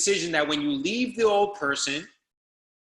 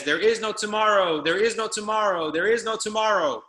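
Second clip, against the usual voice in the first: echoing shout; 3 semitones higher than usual. Retold or imitated. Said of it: "you actually hear the echo".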